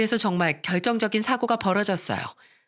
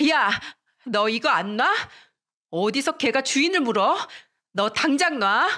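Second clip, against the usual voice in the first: acted indignant outburst, only mildly raised; angry yelling; 4 semitones higher than usual. Girl grabbed by the hair orders her classmate off, angry. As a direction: demand release with rising indignation. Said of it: "화를 내면서 소리쳤습니다".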